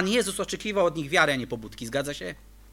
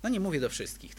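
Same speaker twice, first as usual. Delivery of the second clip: "nie" said lightly, much softer; softer restatement; 6 dB quieter than usual. Shown as a demonstration. Preacher softly correcting himself to the church. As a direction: pull back and say it gently, nearly aside. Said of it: "tak bym powiedział".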